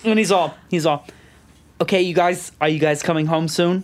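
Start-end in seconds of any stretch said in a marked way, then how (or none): 1.8-3.8 mild imitated Boston voice; Boston accent. Father asking daughter when she's home, Boston accent. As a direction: lightly put on Boston speech. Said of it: "Is he from Boston now?".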